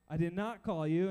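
a touch of weary irritation; mildly annoyed. Acted. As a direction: deny it like someone kept from sleep. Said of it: "I don't know if he was annoyed".

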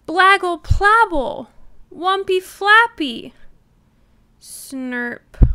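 put-on loud, high upset baby gibberish; upset toddler babbling loudly, rising in pitch; loud toddler babble. A narrator's reading. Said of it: "said Trixie again".

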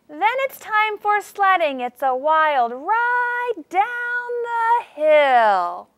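high start sliding into a slow downhill swoop; voice up then down. Shown as a demonstration. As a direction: start high on sledding, then ride slowly down the hill. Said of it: "how I made my voice go up and then down".

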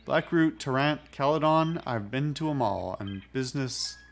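put-on well-travelled captain in a light pirate accent; mild salty pirate accent; Edward Teach in pirate accent. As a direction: list ports in a lilting pirate accent. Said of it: "I don't know why I'm doing the accent".

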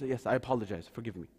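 apologetic. Retold or imitated. Musa begs Khidr's forgiveness, low and contrite. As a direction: sink into a humble apology.

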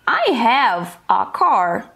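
very slow, breathy model line; slow whispered example. Shown as a demonstration. Teacher showing an example sentence, slow and breathy. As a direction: mouth each word slowly. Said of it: "Let's see the examples".

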